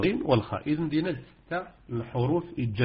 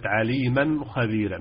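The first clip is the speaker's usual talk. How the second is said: recited example; slower than usual. Shown as a demonstration. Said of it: "هذا تنوين".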